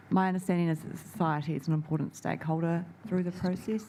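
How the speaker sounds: speaking up a little; projecting for someone who can't hear; to someone hard of hearing. Real, not acted. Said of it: "Can you talk up, please? I can't hear you".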